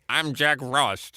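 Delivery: Bob Hope. Acted. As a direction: draw it out low as the aged comedian. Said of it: "Every now and then he says".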